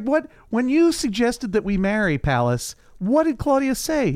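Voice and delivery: high, pressing demand; urgent questioning. Retold or imitated. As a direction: press him for the answer. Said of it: "She's like".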